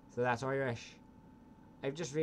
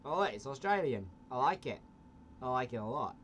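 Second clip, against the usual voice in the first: put-on Australian accent. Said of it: "I've gone Australian".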